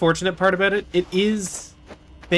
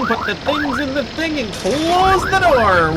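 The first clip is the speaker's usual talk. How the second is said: calling out; 6 semitones higher than usual. Real, not acted. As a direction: raise the voice so they hear you from the next room. Repeats the call, louder.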